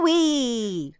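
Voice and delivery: ooh-wee held longer; longer catchphrase. Shown as a demonstration. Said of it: "He normally says it longer".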